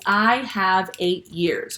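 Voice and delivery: drawn out, each word weighed; slow literal version. Shown as a demonstration. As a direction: spell out the odd literal phrasing slowly. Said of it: "it would sound a little funny".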